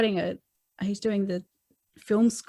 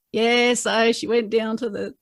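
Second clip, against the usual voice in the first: mock bad reading; 4 dB louder, slower than usual. Shown as a demonstration. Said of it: "no, it's not like that".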